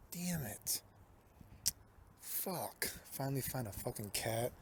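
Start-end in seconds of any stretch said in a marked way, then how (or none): 0.1-2.9 frustrated whisper. Real, not acted. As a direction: hiss the curse under breath. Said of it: "whispered curse".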